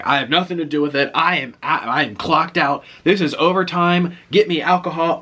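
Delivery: put-on fed-up voice, each phrase stretched; fed-up Russian guy. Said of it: "That's how he was talking".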